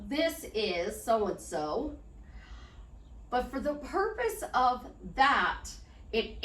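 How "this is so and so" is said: slow introduction. Retold or imitated. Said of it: "you're gonna go".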